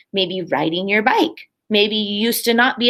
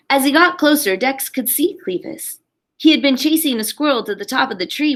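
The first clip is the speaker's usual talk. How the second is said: put-on lively read-aloud for a class of kids; animated picture-book narration; storybook reading. A narrator's reading. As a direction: read it like story time on the rug. Teacher reads picture book aloud.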